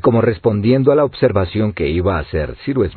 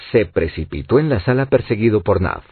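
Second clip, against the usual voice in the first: plain reading voice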